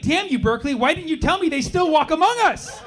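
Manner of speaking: high theatrical lament; mock-dramatic curse. Comic blames Berkeley, high hammed-up lament. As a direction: cry it out like a betrayed hero. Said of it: "I was like".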